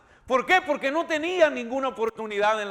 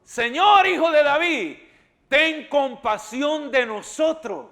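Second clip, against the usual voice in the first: crying out; 3 semitones higher than usual. Acted. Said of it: "¿Y cómo dijo?".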